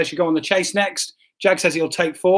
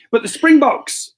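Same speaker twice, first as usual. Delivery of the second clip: announcer; 8 semitones higher, 5 dB louder than usual. Acted. Announcing quiz placings.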